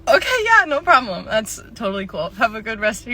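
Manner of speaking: sugary fake cheer; forced politeness.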